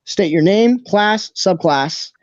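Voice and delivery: lightly voiced ticketmaster drawing out the list. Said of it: "Ticketmaster kinda walks over to you".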